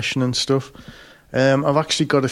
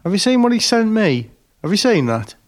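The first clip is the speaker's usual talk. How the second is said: Harry indignant; 9 semitones higher than usual. Retold or imitated. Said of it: "like, going".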